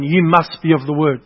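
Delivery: weight on you and Word; emphasized again. Shown as a demonstration. Preacher stressing must to the congregation, firm. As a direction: press every word home. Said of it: "I'm gonna emphasize that again".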